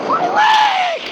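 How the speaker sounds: very high squealed cry; high-pitched scream of pain. Acted. Carl hit in the leg, high squealed scream. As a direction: squeal it out as if wounded. Character hurt in the game.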